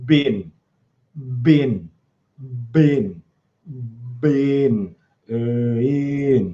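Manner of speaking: low, very slow bin with dipped b. Demonstrating voice placement on the word 'bin', voice pushed down by the B. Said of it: "The B forces my voice down a little bit".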